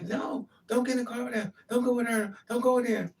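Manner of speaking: high, urgent mock protest; frantic retold screaming. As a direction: plead repeatedly like the panicked boyfriend. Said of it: "He's screaming on the phone".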